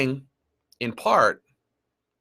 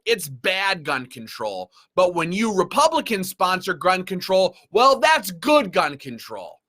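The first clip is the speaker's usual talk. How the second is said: mock sarcastic reply; 4 semitones higher than usual. Mocking what they expect him to say.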